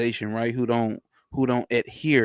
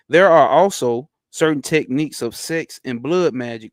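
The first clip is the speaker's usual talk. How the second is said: louder formal reading of the passage; reading aloud; 3 dB louder than usual. Acted. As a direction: read it out steadily, like a text for the chat. Reads passage again.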